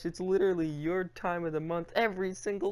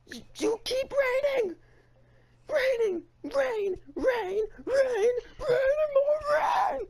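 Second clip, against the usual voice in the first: high, loud hammed-up sobbing shouts; mock crying yell; 3 dB louder, slower than usual. Host wailing at Mother Nature over rain delays, fake sobbing shouts. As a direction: wail each rain like a fake tantrum.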